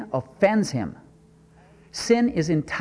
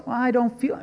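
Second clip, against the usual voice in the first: pitched-up complaining objection; mock whiny excuse; 7 semitones higher than usual. Preacher mocks a believer who won't rejoice, whiny. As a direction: sulk it like a reluctant listener.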